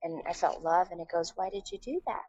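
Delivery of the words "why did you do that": tiny inner voice. Retold or imitated. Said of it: "this little tiny voice".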